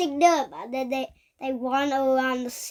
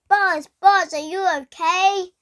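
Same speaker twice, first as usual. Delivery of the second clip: raised, louder mock scream; 4 semitones higher, 4 dB louder than usual. Retelling the toys screaming to check on Buzz, high mock scream. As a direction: call out urgently, pitched up. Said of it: "And then they screamed".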